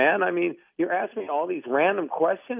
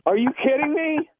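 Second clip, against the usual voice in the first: shocked disbelief; 6 semitones higher than usual. Real, not acted. Prank revealed, disbelief.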